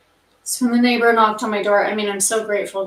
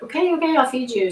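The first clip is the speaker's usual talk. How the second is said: giving in; 4 semitones higher, faster than usual. Retold or imitated. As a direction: give in to the cat, pitched up high. Giving in to a meowing cat.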